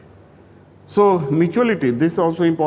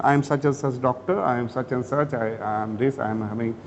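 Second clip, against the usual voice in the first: demo doctor introduction; 6 semitones lower, 4 dB quieter than usual. Shown as a demonstration. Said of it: "Like this, you bri-, give a brief history".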